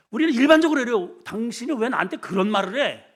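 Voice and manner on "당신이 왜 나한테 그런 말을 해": annoyed. Retold or imitated. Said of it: "이러고 짜증을 내요".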